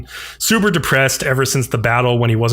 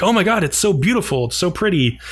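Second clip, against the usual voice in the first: higher, breathy wonder at the lights; awed gushing; 6 semitones higher than usual. Retold or imitated. They marvel at blue lights.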